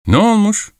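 high-pitched, testy comeback; irritated grumble. A narrator's reading. Angry young man answering the fur-coated man, irritated grumble. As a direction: toss back a sharp, high retort. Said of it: "diye söylendi".

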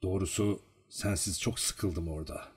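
soft, calm admission; calm and quiet, almost confiding. A narrator's reading. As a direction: say it softly and calmly. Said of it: "sakin bir sesle".

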